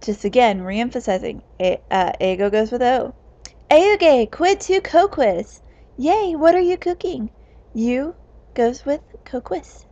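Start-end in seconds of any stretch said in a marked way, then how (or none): 3.7-7.3 cheerful. Acted. Cheerful Latin dialogue with translation.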